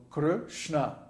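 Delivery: "Krishna" broken slowly into "Kr" and "shna", both short; two short syllables. Shown as a demonstration. Teacher breaking down the word, "Krishna" in two short parts. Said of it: "both syllables are short".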